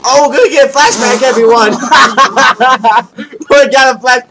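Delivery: high, loud and fast excitement; excited. Real, not acted. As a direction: blurt it out thrilled. Excited about flashback.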